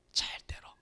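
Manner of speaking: breathy whispered warning. Real, not acted. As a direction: drop to a whisper for weight. Urgent hushed exhortation.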